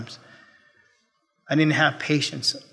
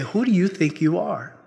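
stern rebuke; 5 dB quieter than usual. Retold or imitated. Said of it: "It's as if the Lord said".

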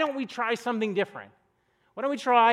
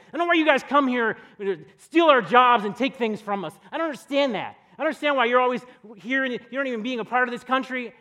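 loud, indignant rant at the clerk; angry customer; 3 semitones higher, 6 dB louder than usual. Retold or imitated. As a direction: retell the customer yelling it in your face. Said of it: "He sits there and goes".

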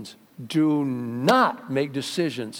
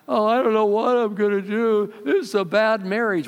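mock despair; 7 semitones higher, 3 dB louder than usual. Voicing a despairing spouse.

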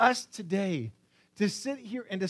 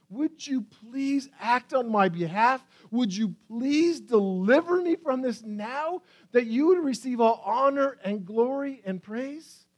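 higher-pitched, earnest entreaty; pleading; 4 semitones higher than usual. Acted. Psalmist asks God to deliver him now, pleading. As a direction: beg for deliverance. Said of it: "It's a plea for God to act".

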